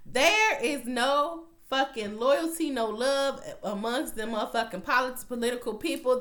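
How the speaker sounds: high, loud, stretched outrage; mock outraged shout. Viewer reacting to the betrayal, high loud outrage. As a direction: blurt it out like the betrayal shocked you. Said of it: "I was like".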